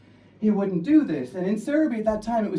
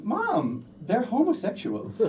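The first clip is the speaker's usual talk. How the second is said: put-on girl laughing; 4 semitones higher, slower than usual. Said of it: "the girl says to her mom".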